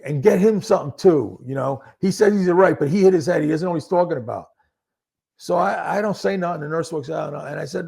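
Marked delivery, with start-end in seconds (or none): 0.0-4.5 urgent raised voice. Retold or imitated. Loud urging to nurse.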